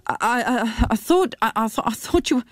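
flustered, tripping over his words; shocked stammer. Acted. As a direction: caught off guard, stumbling over the start. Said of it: "Tim sounded shocked".

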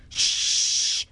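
soft, voiceless shush; hushing. A narrator's reading. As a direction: hush your friend so you can listen. Holly hushes her to listen.

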